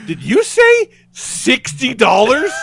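high, slow and incredulous; can't believe the price he's hearing; disbelieving question. Retold or imitated. Guest asks the waiter in disbelief about the breakfast price, high and slow.

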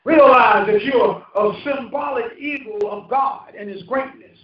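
slow, shouted proclamation; preaching shout. Real, not acted. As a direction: drive each word home to the pews. Preacher's climactic exhortation to congregation.

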